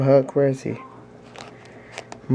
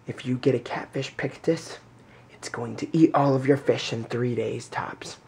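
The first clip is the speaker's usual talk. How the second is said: hushed, breathy retold warning; a mock-confidential store clerk's whisper; 2 semitones lower, 6 dB quieter than usual. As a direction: lean in and whisper it like a secret. Retelling the pet store lady's warning.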